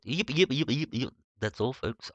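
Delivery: a weak try at the cartoon pig; Porky Pig impression. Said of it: "I'll never be a good Porky Pig impersonator".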